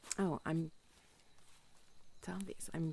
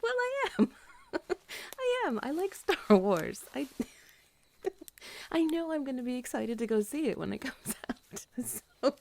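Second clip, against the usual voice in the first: higher, louder, laughing through words; giggly laughing; 8 semitones higher, 6 dB louder than usual. Real, not acted. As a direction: giggle through it, playfully defensive. Laughing at her own joke.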